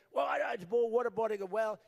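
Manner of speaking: halting, stammering mock hesitation; mumbling rival. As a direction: bumble through like a caught politician. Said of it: "He was mumbling and bumbling".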